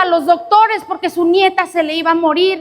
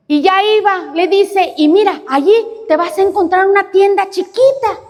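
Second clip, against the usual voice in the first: grandmother giving directions; 5 semitones higher than usual. Acted.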